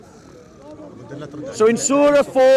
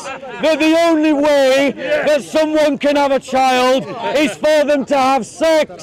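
slow, forceful polemic; deliberate open-air oratory; street preaching; slower than usual. Real, not acted. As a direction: declaim it phrase by phrase to the crowd. Declaims argument to the crowd.

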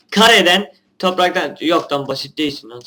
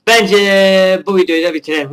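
louder, blurted announcement; sudden shout; 2 semitones higher, 6 dB louder than usual. Real, not acted. Gamer suddenly shouting at his viewers. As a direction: shout the line out of nowhere. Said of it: "Niye bağırdım ben?".

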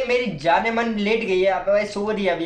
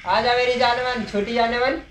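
mock sweet talk; 3 semitones higher than usual. Sweet-talking enemy creature mockingly.

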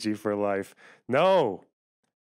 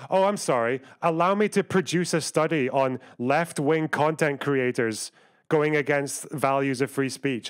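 sarcastic apology. Real, not acted. Sarcastic reply to chatter.

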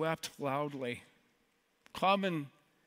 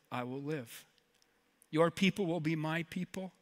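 soft, measured recitation with pauses; quiet, solemn pledge read out; heartfelt vow; 3 dB quieter than usual. Retold or imitated. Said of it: "Ruth looks at her mother-in-law and she says".

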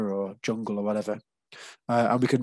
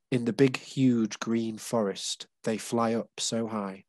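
poem reading; slower than usual. Shown as a demonstration. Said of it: "another example".

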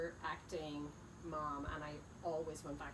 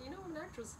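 higher, indignant quote; mock indignant; 10 semitones higher, faster than usual. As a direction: play it haughty and offended. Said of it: "I'm like".

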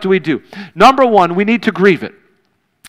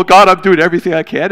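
emotional plea; 4 dB louder than usual. Retold or imitated. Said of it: "I was all emotional".

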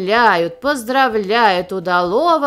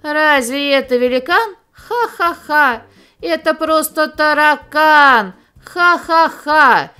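heated mocking cry; 5 semitones higher, 4 dB louder than usual. A narrator's reading. Kangaroo sees the cockroach, heated mocking cry. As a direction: cry it out, scoffing loudly. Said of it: "закричала сгоряча".

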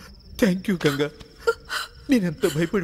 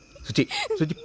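laughing through tears; 10 semitones higher than usual. Acted. Comforting a crying child.

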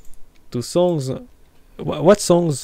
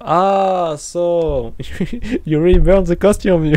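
laughing disbelief; 4 semitones higher, 8 dB louder than usual. Real, not acted.

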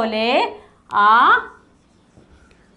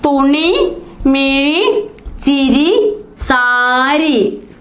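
each word read out clearly with a rise; read-back; much slower than usual. Shown as a demonstration. Teacher checking the dictated words with the class, clearly. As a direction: list the words back one by one. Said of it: "എന്തെല്ലാമാണ് എഴുതിയത്".

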